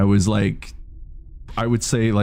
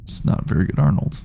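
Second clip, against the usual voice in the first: Arnold impression; 2 semitones higher than usual. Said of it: "when I do my Arnold impression".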